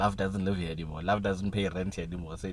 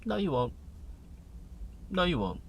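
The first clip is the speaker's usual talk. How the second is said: higher, flat dismissive no; doubting inner voice; 8 semitones higher, 3 dB quieter than usual. Retold or imitated. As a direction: shut the dream down coolly. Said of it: "And then it goes".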